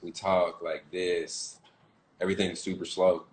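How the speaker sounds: slow Southern country drawl. Shown as a demonstration. Actor showing his Southern accent to the host, slow drawl. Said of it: "it's just weird way we draw up the words".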